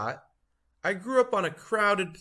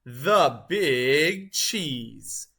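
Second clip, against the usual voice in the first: slow, drawn-out showman's proclamation; booming title reveal; grand announcement; 4 dB louder, much slower than usual. Acted. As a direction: stretch it out like a ring announcer. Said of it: "say it with me".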